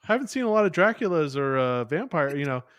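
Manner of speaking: lightly voiced officer; mock army officer. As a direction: play a bemused officer fishing for info. Imitating officer asking about monsters.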